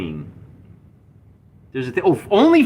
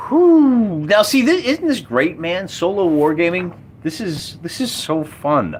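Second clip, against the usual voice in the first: real excitement; 6 semitones higher, slower than usual. Real, not acted. Thrilled after a lucky roll.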